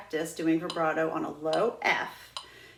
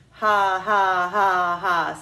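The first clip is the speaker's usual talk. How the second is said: slow, loud, separate breathy ha pulses; punchy diaphragm ha ha ha; breath pulses on ha; 8 dB louder, much slower than usual. Shown as a demonstration. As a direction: push each ha from the belly like a slow sarcastic laugh. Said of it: "step one is to go slowly".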